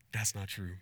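low, hushed imitation of a whisper; retold whisper. Father leaning over to his six-year-old daughter, mock whisper. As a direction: lean in and quietly confide, still voiced. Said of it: "to my six-year-old daughter and whisper".

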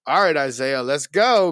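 flat, knowing "let's go"; dry warning. Shown as a demonstration. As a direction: say it like he's in trouble now. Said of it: "meaning you're in trouble now".

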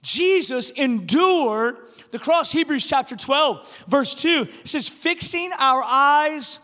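loud, driving pulpit delivery; impassioned, emphatic sermon cadence; forceful preaching. Real, not acted. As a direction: drive each phrase home to a congregation.

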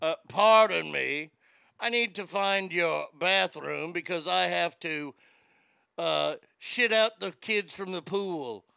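slow, mock-polite ask for the bathroom; a slow, faux-polite ask in the store; mock polite request. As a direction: feign manners, slowly. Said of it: "that's the way I say it".

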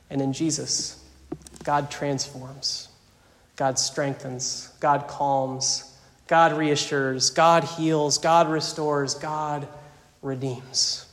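quiet tender benediction-like list; hushed litany. Acted. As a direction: whisper the promise gently to the flock. Same litany, now hushed.

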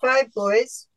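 mouth full. Real, not acted. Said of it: "Sorry, I'm eating some chocolate".

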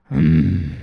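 low throaty hum; low, drawn-out "mm"; Yoda. Acted. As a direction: hum like a wise little creature. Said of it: "That was a good Yoda impression".

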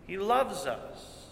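quiet, tender echo of He loves us; soft echo. Real, not acted. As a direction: drop it to a near hush. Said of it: "repeated softer".

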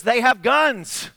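high, slow, emphatic warning; retold urgent warning. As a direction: imitate an exasperated teammate's alarm.

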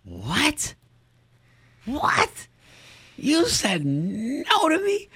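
climbing high and slow, hammed-up disbelief; mock outrage. Father hearing his kid say no, mock shocked disbelief. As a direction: play the stunned father, stretching it out. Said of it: "I would go".

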